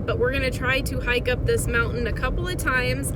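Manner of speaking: talking while jolted on bumpy ground; on a bumpy road. Real, not acted. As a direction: voice bouncing over a bumpy ride. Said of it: "sorry, it's very bumpy".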